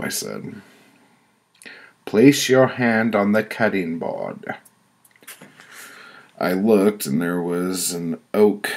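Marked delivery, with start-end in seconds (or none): 2.0-4.5 stern pronouncement, pitched up; higher-voiced woman passing judgment; committee woman. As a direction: hand down the verdict as the judging woman. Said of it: "A woman with white curly hair spoke".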